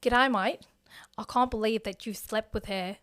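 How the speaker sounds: attempted Australian accent, drifting toward New Zealand. Shown as a demonstration. Podcast host trying Australian for the accent game. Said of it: "Let's give you Australian".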